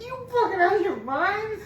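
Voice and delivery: high, loud incredulous yell at the officer; outraged yell. Retold or imitated. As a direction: throw it back at him, disbelieving and loud. Outraged quote to probation officer.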